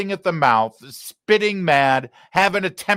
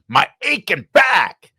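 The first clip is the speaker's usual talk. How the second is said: mock Midwest uncle grumble, slow and louder; dorky uncle yell; 5 semitones higher, 5 dB louder than usual. Host imitating his dorky uncle's angry outburst, hammed up. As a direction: ham up a grumpy uncle's complaint. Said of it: "dorky uncle getting angry and saying".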